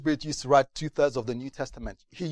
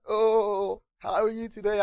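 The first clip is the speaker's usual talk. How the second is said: put-on mother to child; 7 semitones higher, slower than usual. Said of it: "it's like".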